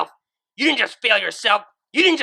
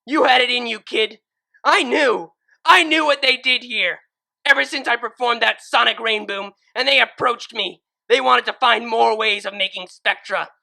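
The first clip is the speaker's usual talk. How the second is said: high, loud furious screaming; seething scream; 10 semitones higher, 12 dB louder than usual. Acted. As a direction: scream back with pure hate. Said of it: "screamed in return".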